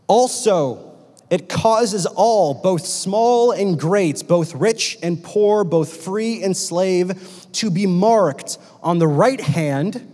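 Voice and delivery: slow, measured phrases with weighted key words; solemn scripture reading. Acted. Preacher reads Revelation to the congregation, slow and solemn. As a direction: read it out deliberately, pausing between phrases.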